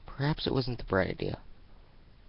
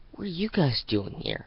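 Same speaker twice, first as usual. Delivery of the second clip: higher, louder demand; suspicious surprise; 7 semitones higher, 4 dB louder than usual. Acted. Sunset confronting the Dazzlings at her porch, suspicious. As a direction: confront them, eyes narrowed.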